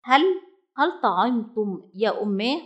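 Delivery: halting, stumbling over the first word; hesitant. Acted. Little bird asks his mother hesitantly. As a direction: ask timidly, unsure of the answer. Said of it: "سأل فصاد في تردد".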